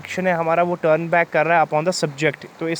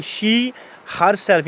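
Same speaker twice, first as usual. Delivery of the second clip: "She" lifted high and hit, then "herself" falls; stress on she; 3 semitones higher, much slower than usual. Shown as a demonstration. Teacher stressing "She" for her students. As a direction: punch "She" so it stands out before "herself". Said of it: "यानी she पे stress है".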